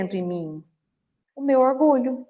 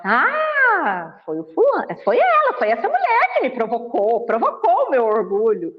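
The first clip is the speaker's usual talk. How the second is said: mock blaming victim. Lecturer mocking someone who blames others, whiny. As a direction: play the victim blaming everyone else. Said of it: "de falar assim".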